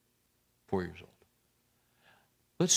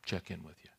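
quiet prayer; 3 semitones lower, 6 dB quieter than usual. Pretend. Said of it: "You know".

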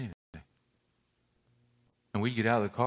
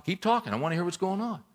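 eager dad; 8 semitones higher than usual. Retold or imitated. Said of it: "My boys will say that".

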